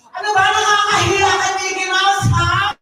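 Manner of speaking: high, embarrassed scolding; exasperated scolding. Acted. Speaker scolds friend in front of Mickey Mouse, exasperated.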